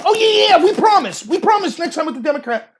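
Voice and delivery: high-pitched, over-eager mock assurance; mock earnest promise. Partisans promising consistency next time, mock eager.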